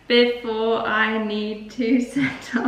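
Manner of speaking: slow, robot-style halting; mock robot pausing words. Shown as a demonstration. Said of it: "I sound like a robot".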